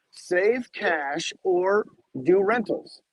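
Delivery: drawn out slowly, word by word; mock-solemn slow quote of the old advice; slow spelled-out advice. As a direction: lay out each option slowly. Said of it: "He said".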